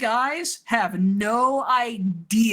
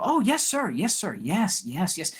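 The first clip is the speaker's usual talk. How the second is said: eager soldiers. Acted. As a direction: snap to it like keen recruits. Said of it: "And they go".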